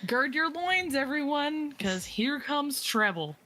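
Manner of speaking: high, teasing seductive tone. Acted. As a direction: tease it like a flirty vampire. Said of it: "do my seductive voice".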